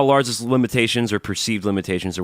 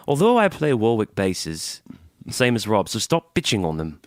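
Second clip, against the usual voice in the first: put-on Turner Duckworth's accent. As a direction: read it in a mock British accent. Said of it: "read it in Turner Duckworth's accent".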